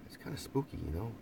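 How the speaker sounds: breathy whisper, mock eerie; hushed mock-creepy aside; spooky whisper. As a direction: whisper it like a ghost story. Calls technology spooky.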